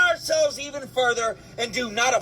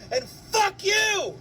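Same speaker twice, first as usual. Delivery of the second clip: high, drawn-out shout; angry outburst; 5 semitones higher, slower than usual. Real, not acted. Ranter curses those keeping people down, angry shout. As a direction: hurl it out slowly, high and furious.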